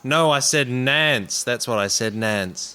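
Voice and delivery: loud, high-pitched backtracking; defensive denial. Acted. Soldier covering his slip to his teasing comrades, loudly defensive.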